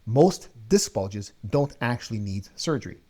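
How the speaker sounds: measured, confident and clear; focused, confident read; clear and intentional. Shown as a demonstration. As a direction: deliver it with clarity and intention. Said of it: "let me say this with clarity and intention".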